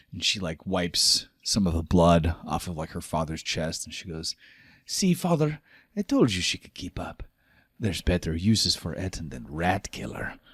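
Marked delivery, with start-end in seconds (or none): 4.8-10.4 daughter's voice. Acted. Ragnas presses her father.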